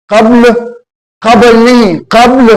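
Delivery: قبل as qabl, the b closed with no vowel; correct pronunciation. Shown as a demonstration. Teacher to students, modeling the right form. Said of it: "بے کے اوپر الٹا جزم ہے".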